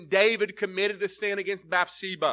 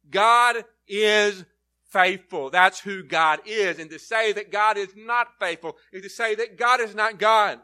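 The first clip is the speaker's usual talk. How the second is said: preaching emphasis; 5 dB louder than usual. Acted. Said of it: "there's an emphasis here".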